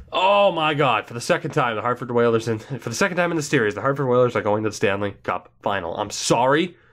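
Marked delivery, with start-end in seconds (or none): 0.1-6.0 flustered shock. Real, not acted. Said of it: "in a state of complete shock".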